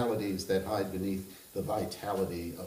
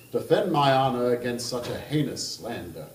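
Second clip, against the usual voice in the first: put-on Kentucky accent; 3 semitones higher, 6 dB louder than usual. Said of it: "I'm going to attempt that kind of accent".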